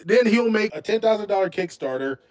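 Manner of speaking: normal talking voice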